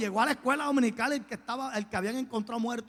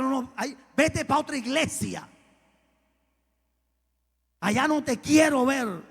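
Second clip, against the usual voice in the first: raised, high rebuff, louder at the end; retold indignant refusal; 5 semitones higher, 6 dB louder than usual. Pastor refusing the man at church, indignant raised voice. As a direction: send him away firmly, voice pitched up.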